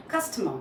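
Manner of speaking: CUS-tomer, stress on the first part; first-syllable stress. Shown as a demonstration. Teacher shows a neutralized customer, first part stressed. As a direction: lean on CUS in customer, neutral ending without R. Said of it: "you just stress on the first part".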